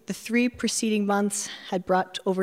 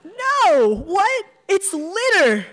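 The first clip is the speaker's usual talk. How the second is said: much higher, louder, laughing indignation; amused protest; 12 semitones higher, 7 dB louder, much slower than usual. Acted. Narrator defending keeping the litter, laughing protest. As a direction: protest with glee.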